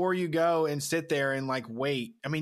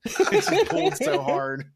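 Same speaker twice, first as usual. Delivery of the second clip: high, loud words through laughter; cracking up mid-sentence; squealing with laughter; laughing; 6 dB louder than usual. Real, not acted. Laughing while telling story.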